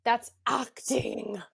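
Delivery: very slow, hammed-up crying plea; fake-weep it like a wronged star; mock sob. Actress answers angry fans, mock crying slowly.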